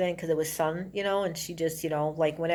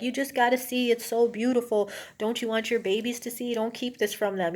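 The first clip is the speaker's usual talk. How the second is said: higher-pitched, fervent coaxing, lightly acted; agitated, demonic influence; 5 semitones higher than usual. Gary urging a mother to uncover babies' eyes, mock agitated pleading. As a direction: imitate a frenzied man urging them to see. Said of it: "in a, in an agitated".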